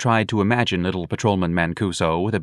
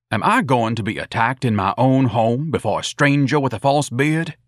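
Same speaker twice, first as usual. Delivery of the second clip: haughty, higher-pitched indignation; affronted, pompous son; 5 semitones higher, 3 dB louder than usual. Acted. Ignatius objecting to a bearded stranger, affronted. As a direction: protest as if gravely insulted.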